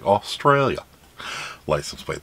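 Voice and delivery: a weak attempt at an Australian accent; bad Australian accent. Shown as a demonstration. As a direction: try an Australian accent, badly. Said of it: "That's not a good Australian accent".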